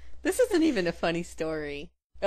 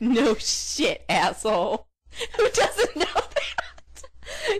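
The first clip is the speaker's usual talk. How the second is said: mock scorn laughing; 6 semitones higher, 4 dB louder, much slower than usual. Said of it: "I was like".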